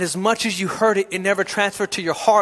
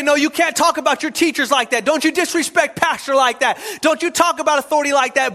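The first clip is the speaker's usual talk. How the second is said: scolding parent; 5 semitones higher than usual. Retold or imitated.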